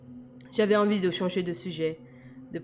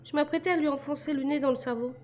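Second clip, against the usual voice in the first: put-on much higher, determined young woman; girl's voice, focused; 8 semitones higher than usual. A narrator's reading. Girl explaining she meant to fight the attacker. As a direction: her voice, matter-of-fact and resolute.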